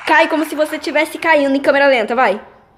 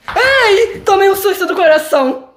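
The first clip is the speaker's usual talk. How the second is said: startled; 5 semitones higher than usual. Pretend. Startled by scare.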